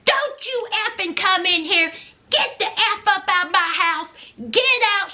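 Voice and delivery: screaming. Retold or imitated. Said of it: "Z is still screaming".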